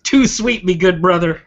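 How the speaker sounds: loud pro wrestling promo; wrestler catchphrase. Pretend. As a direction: hype wrestler shout-out.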